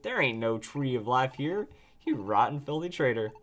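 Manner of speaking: lightly voiced southern drawl; Nuzleaf. Nuzleaf calls out a traitor, light southern drawl. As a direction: read it with a hint of southern drawl. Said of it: "That's the southern drawl that we look for".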